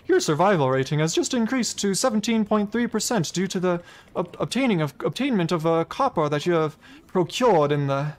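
lightly voiced robotic computer readout. A hint of computer voice as she mocks the game's AI. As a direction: recite it like a ship's computer. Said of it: "You'd think it was a computer".

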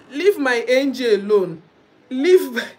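firm loud defence of her friend; leave her alone. Real, not acted. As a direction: tell them off loudly.

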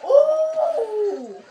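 high, loud wincing ooh. Real, not acted. Player winces at a hit in the fight, loud ooh.

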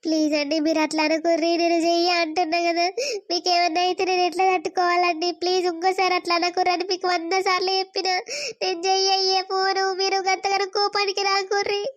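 mild tearful begging, voice wavering; teary pleading. Acted. Wife begging husband not to get angry, mildly tearful. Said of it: "ఇప్పుడు ఏడుతాను".

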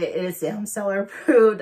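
hoarse voice cracks on the words; voice cracking. Real, not acted. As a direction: push through a cracking, lost voice. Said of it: "I just lost my voice".

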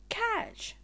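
high call across the beach. Acted. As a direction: shout it to a friend. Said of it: "he called".

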